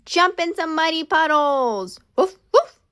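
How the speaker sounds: high, loud gleeful cheer; excited. Acted. Ollie and Milo cheer for muddy puddles, loud and high. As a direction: cheer it out, barking with joy.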